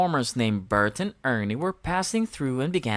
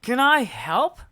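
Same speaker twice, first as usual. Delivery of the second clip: high, louder bird-like voice; Big Bird voice; 8 semitones higher, 5 dB louder than usual. A narrator's reading. Big Bird offering help, high and eager. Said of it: "asked Big Bird".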